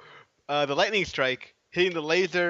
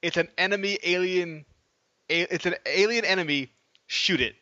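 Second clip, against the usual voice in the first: a hint of a Southern accent; 3 semitones higher than usual. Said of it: "another dude in a southern accent".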